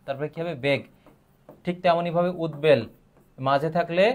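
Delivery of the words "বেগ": বেগ said alone with a full B, "beg"; বেগ as a separate second half; syllable-by-syllable pronunciation. Shown as a demonstration. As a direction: keep the B sounded in বেগ. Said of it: "তার উচ্চারণটা বহাল থাকবে".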